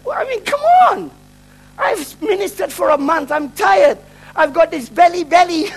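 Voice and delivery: exasperated, high-pitched complaint; retold anger. Tired minister complaining to God, retold exasperated anger. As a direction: protest in comic disbelief. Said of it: "I get really angry".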